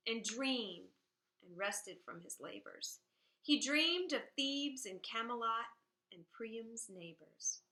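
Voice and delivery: measured, rhythmic reading of a narrative poem; poem recital. Shown as a demonstration. Teacher reading the poem aloud to the class, measured recital. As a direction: let each stanza land, pause at the rhymes.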